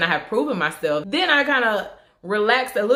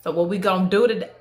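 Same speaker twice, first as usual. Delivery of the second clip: casual talk. Retold or imitated. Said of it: "and said".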